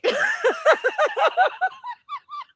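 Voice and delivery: long rising squeal of laughter; high squealing laugh. Real, not acted. Reader laughing at a viewer's mic check, high squeal.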